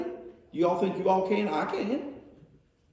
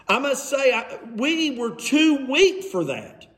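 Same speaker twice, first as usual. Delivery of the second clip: sarcastic; 3 semitones higher than usual. Acted. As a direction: plead weakness with obvious sarcasm. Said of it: "how you really know he's being sarcastic".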